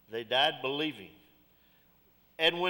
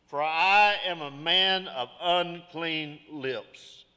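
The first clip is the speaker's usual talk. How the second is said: very slow, solemn lament; much slower than usual. Retold or imitated. Isaiah crying out to God, slow lament. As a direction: draw out every word in sorrow. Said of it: "he cried out".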